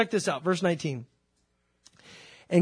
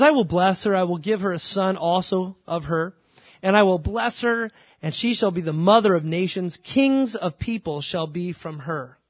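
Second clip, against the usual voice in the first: emphatic, declarative Bible reading; scripture reading; 5 dB louder than usual. Acted. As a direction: proclaim the verse firmly to the congregation. Reads scripture aloud to congregation.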